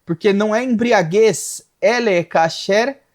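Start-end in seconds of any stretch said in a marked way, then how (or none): 1.8-3.0 slow, drawn-out Hebrew reading; deliberate, stretched verse reading; scripture recitation. Real, not acted.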